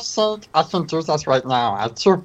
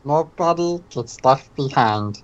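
Stitch voice. Acted. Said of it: "skit with that voice".

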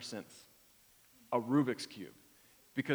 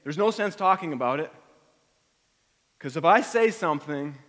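agitated inner voice; 2 semitones higher, 5 dB louder than usual. Acted. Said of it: "He's saying".

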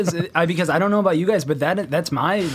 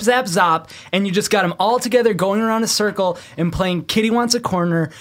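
a lightly raised, fervent proclamation; mock grand speech; 4 semitones higher than usual. Improv fan proclaiming improv will end war, fervently. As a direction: preach improv like it can save the world.

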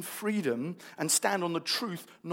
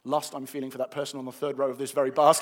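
mock bus prayer; 5 semitones lower than usual. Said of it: "I'm kinda kidding around".

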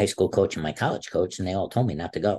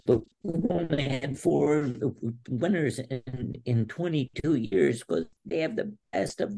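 coach voiced; 5 semitones higher than usual.

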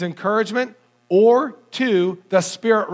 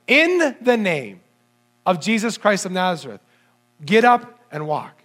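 authoritative command. Retold or imitated. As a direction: speak it with full apostolic authority. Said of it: "now he's using the name of Jesus".

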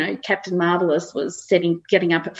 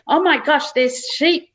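higher, slowing playful amazement; mock astonishment; 7 semitones higher than usual. Dog alerting owner to sheep, playfully amazed. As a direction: lightly play an astonished dog. Voicing dog's alarm at seeing sheep.

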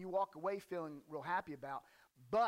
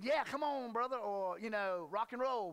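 rousing welcome; 3 semitones higher, 4 dB louder, slower than usual. Acted. Preacher voicing the reply he expected from Jesus, rousing. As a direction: egg a brother on with gusto.

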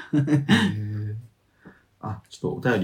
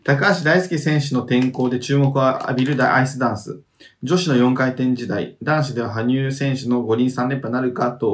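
measured reading of listener mail; letter read-aloud; 2 semitones higher than usual. Acted. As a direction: read the message out evenly.

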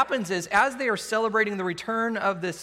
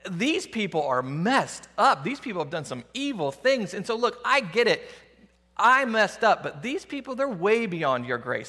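Jonah arguing. Acted. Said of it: "it would probably go something like this".

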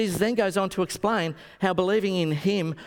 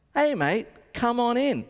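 lightly voiced rocker's call, higher pitch; a rock singer; 6 semitones higher than usual. Rock singer inviting a fan backstage, lightly imitated. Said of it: "if you know how he sings".

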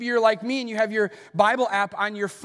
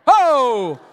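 excited burst; 6 semitones higher, 12 dB louder than usual. Real, not acted. Excited exclamation.

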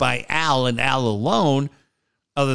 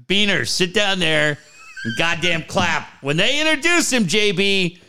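bossy coach order; 5 semitones higher than usual. Retold or imitated. Coach ordering Beaner to clap.

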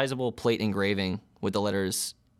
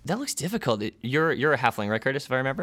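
a cheery, higher-pitched welcome; the bubbly desk clerk greeting new arrivals; receptionist woman; 3 semitones higher than usual. Acted. GM as receptionist welcoming the test subjects, bright and chirpy.

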